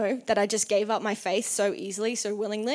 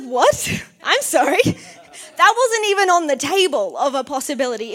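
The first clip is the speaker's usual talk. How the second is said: high, loud stunned reply with a laugh; shocked disbelief; 3 semitones higher, 6 dB louder than usual. Retold or imitated. To her boss, a startled laughing what. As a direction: react like the offer floored you. Shocked at boss's job offer.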